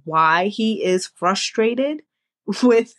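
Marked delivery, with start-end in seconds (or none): 2.3-2.9 laughing while trying to stay serious; holding back a laugh mid-word; stifled giggles. Real, not acted. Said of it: "I'm trying not to laugh".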